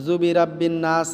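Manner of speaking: "জুবি রাব্বিন নাস" unchanted; spoken, unstretched "জুবি রাব্বিন নাস"; short spoken phrase. Shown as a demonstration. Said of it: "কেউ কেউ বলেই না".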